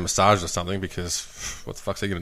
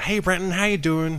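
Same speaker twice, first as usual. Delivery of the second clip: higher-pitched American woman's greeting; American accent; 7 semitones higher than usual. Retold or imitated. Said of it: "She had, like, American accent".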